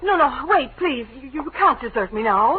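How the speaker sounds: high, urgent plea; rising panic, pleading. Acted. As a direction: beg him not to walk out. Wife begs detective not to leave.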